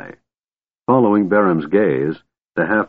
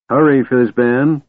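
slow, anxious plea; pleading; 4 semitones higher, slower than usual. Acted. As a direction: beg him to hurry. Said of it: "pleaded Tasselhoff".

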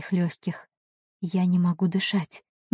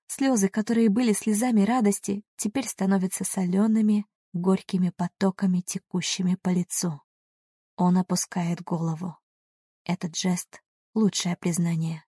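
usual speaking voice

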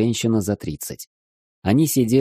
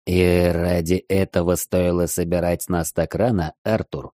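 put-on muffled old man grumble. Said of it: "глухо проворчал один из стариков".

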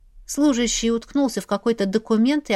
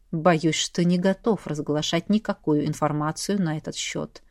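lower, politely icy refusal; polite but cold; 5 semitones lower, 4 dB quieter than usual. A narrator's reading. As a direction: refuse courteously and coldly. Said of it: "учтиво, но при этом очень холодно".

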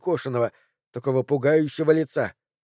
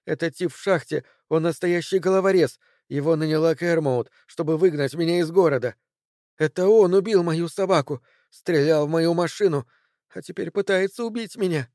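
higher, rushed fearful telling; frightened; 4 semitones higher than usual. Acted. Cori to Ted, fearing the miner, frightened. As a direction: voice lifted by fear.

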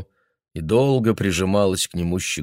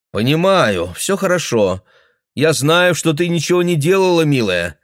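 reassuring daughter; 8 semitones higher, 4 dB louder than usual. Acted.

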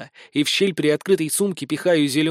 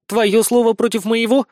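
scoffing; 6 semitones higher, 3 dB louder than usual. A narrator's reading. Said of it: "хмыкнула Нелли".

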